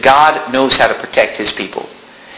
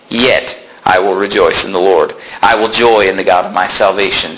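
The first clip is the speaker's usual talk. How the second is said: slow scripture reading. Acted. Preacher reading verse seventeen to the church, slow and grave. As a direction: let each line of the verse land slowly.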